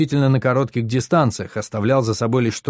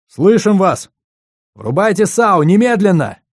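urgent shout; 8 semitones higher, 6 dB louder than usual. Acted. Urgent radio reply.

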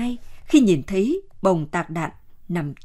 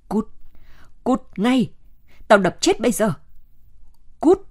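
crazed angry shout. Acted. Linh, feverish, yelling at Chín Xùm to get out. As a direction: drive him off in a frenzy, half out of his mind. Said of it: "giọng cũng dại đi".

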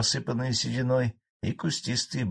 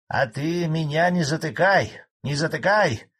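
громче и выше, злобный старик огрызается; огрызнись злобно; 7 semitones higher, 5 dB louder than usual. A narrator's reading. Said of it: "злобно ответил старый колхозник". (злобный старик огрызается)

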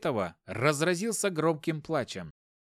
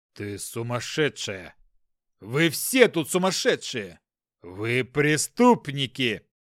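slow, much louder furious yelling; raging tirade; 7 dB louder, slower than usual. Acted. Hopkin yells at everyone in the house, raging tirade. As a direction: rant without stopping. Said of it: "Не унимался Хопкин".

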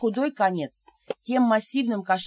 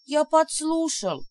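guilty confession; 6 semitones higher, slower than usual. A narrator's reading.

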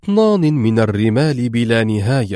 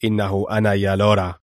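Mr X, lower, tense on the phone; 4 semitones lower than usual. Acted. Mr X calling Laura under pressure, tense and low. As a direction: speak low and strained, nerves showing. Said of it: "وهو يقول في توتر".

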